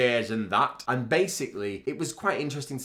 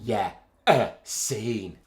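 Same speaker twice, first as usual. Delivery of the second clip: slow northern English "a scene"; drawn-out northern vowels; northern accent; 4 dB louder, much slower than usual. Real, not acted. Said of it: "It's my northernness".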